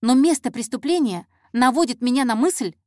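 undeterred insistence. Acted. Intern pressing her theory on the detective, insistent. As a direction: press the theory, refusing to give up. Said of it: "не унималась она".

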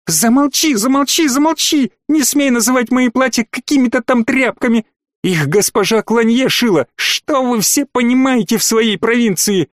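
high, hysterical screaming; shouting match. Acted. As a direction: shriek her down, spoiled and furious.

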